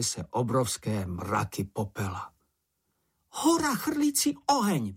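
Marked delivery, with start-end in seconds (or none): 3.3-4.9 high-pitched little creature's cry of alarm; high alarmed cry of a small animal; Čenich crying out. A narrator's reading. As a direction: squeal it out as the small frightened Čenich. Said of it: "vykřikl Čenich".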